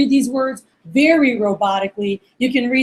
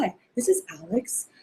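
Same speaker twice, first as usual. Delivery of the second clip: low, soft, stiff mock phone voice; weird, robotic greeting; 4 semitones lower, 11 dB quieter than usual. Trainee calling a friend like a stranger, stiff and low. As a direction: imitate an awkward scripted caller, low and quiet. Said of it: "You sound kinda weird".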